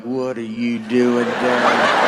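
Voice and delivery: slow, low, suspicious challenge; suspicious neighbour. Retold or imitated. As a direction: drag it out like a nosy neighbour grilling a stranger. Neighbours challenging a car in the cul-de-sac.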